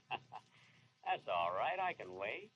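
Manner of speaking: slow chuckling, hushed ghostly taunt; a sly patient ghost. Acted. Benny's ghost teasing him about dying, hushed sly chuckle. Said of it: "I'm your ghost".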